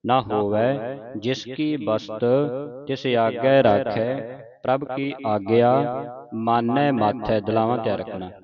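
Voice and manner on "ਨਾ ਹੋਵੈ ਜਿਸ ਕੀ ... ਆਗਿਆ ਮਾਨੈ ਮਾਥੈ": measured phrase-by-phrase recital; sacred verse read out in deliberate phrases; scripture recitation. Shown as a demonstration. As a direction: recite the verse for students to follow.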